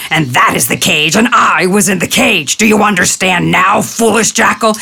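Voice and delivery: a hint of an angry big cat explaining; furious tiger. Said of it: "furious and snapped".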